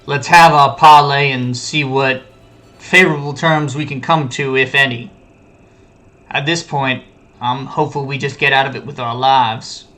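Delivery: lightly voiced disappointed dad; disappointed parent. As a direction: scold him like a let-down father. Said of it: "Just absolute disappointed dad voice".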